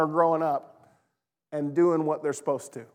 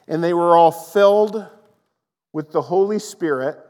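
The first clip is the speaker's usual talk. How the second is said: loud emphasis; 9 dB louder than usual. Real, not acted.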